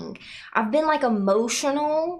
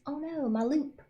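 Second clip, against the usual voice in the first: dismayed oh no; 7 semitones higher than usual. Real, not acted. Streamer loses her audio loop.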